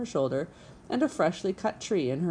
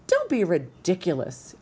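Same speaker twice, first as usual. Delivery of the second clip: Missus Beaver cutting in, louder; interrupting wife; 4 dB louder than usual. Acted. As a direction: cut him off briskly. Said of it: "interrupted Missus Beaver".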